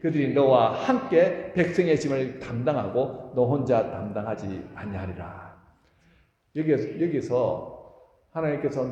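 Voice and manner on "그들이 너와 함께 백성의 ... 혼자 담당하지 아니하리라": slow, loud unison reading of the verse; solemn congregational recitation; reading scripture aloud. Real, not acted. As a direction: read the verse out slowly with the congregation. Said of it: "시작!".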